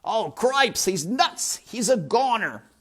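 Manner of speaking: high, loud alarmed squeaking; panicked mouse. Acted. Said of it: "shouted Furlow again".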